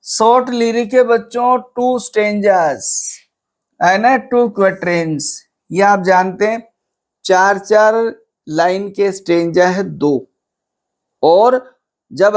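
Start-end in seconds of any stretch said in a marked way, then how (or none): none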